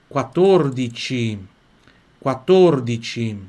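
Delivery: drawn-out, clear pronunciation demo; slow model reading. Shown as a demonstration. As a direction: say it slowly, syllable by syllable. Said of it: "Vamos pra nossa frase quatorze".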